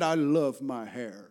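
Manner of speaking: lightly imitated Arabic accent, slow and low; Arabic speaker. Preacher imitates an Arabic-speaking minister, slow Arabic accent. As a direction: draw it out in a mild Arabic accent. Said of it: "he was an Arabic speaker".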